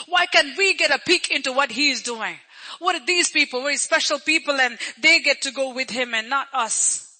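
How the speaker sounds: imitating the left-out disciples' envy; mildly resentful complaint. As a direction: protest being left out. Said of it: "That attitude is not good".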